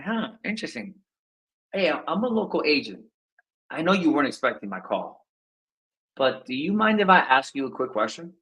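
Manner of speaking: unhurried, curious, no push; curious lean out. Shown as a demonstration. Coach demos a relaxed, curious opener to a seller. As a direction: ask like you just wondered. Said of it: "Lean out".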